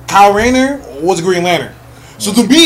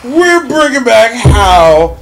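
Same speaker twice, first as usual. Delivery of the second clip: drawn-out, raised-pitch announcement; hammed-up slow declaration; mock proclamation; 4 semitones higher, 3 dB louder, much slower than usual. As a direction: stretch it out like a grand mock decree. Acts out Johns's triumphant announcement.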